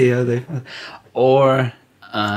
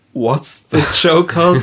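puzzled viewer; 5 semitones higher, 5 dB louder than usual. Acted. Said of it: "everyone would be like".

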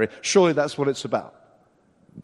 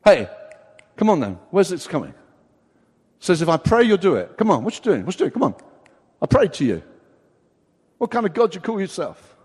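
mock impatient complaint; 5 dB louder than usual. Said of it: "we may not talk like that".

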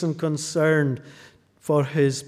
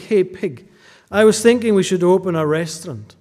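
lively chicken voice; 4 semitones higher, 4 dB louder, faster than usual. Acted. Voicing chicken in fable.

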